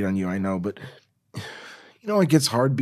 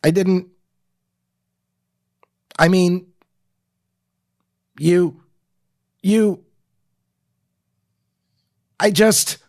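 halting, higher and louder broken sobbing; broken sob speak; 5 semitones higher, 5 dB louder than usual. Acted. Kristen failing to explain to Norman, halting sobs. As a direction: choke out each fragment between sobs. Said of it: "I'm gonna do the dot, dot, dot thing now".

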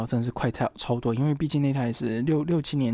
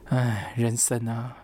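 resigned sigh; 3 semitones lower, much slower than usual. Real, not acted. Lamenting lost data.

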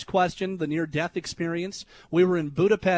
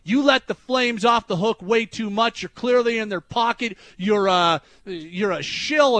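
mock tirade; 4 semitones higher, 4 dB louder than usual. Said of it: "He went right to town on me".

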